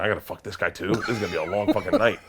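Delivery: laughing through the words; half-laughing, half-shouting the dread. Retold or imitated. Guest dreading the night, laughing and shouting.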